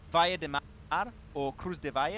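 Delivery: imitating Spanish: Valle de Mar, Cruz de Valle; Spanish pronunciation. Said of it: "he would really say it in Spanish".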